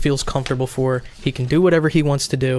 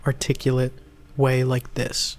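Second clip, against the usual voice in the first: lightly voiced, measured character talk; slow, even and precise; normal, articulate. Shown as a demonstration. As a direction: articulate each word with small, deliberate pauses. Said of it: "at a normal, articulate way".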